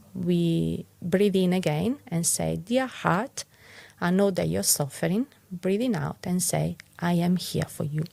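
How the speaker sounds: calm, even guiding voice with gentle pauses; guided meditation. Acted. Teacher guiding listeners through a heart mantra, calm guiding voice.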